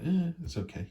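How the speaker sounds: half-hearted shrugging okay; meh. Retold or imitated. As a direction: toss it off like you don't care. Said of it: "The middle grey bit is like".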